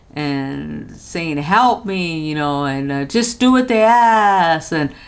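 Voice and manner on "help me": mock crying, put-on woman's pleading sobs. Recounting a threatening call where a woman cried for help, imitating a woman crying. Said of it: "just going off and crying".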